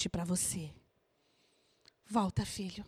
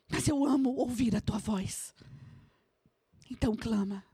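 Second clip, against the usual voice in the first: ordinary delivery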